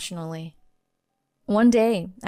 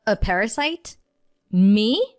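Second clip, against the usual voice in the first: wife declaring she quits, raised and higher; indignant declaration; 4 semitones higher than usual. Acted. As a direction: declare it, no longer holding back. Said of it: "I declared".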